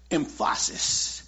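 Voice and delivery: emphasis drawn out as em-FAH-sis; wrong-syllable stress. Shown as a demonstration. Preacher carrying on his saying about Paul, emphasis stressed as em-FAH-sis. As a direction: slowly lean on the middle syllable of emphasis. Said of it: "keep the emphasis on the right syllable".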